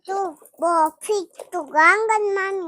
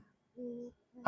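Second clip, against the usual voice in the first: a slower, louder try at the name; louder on request; 7 semitones lower, much slower than usual. Real, not acted. Child told to say name louder, slow louder name. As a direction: stretch the name out, a bit louder. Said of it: "હજી જોરથી".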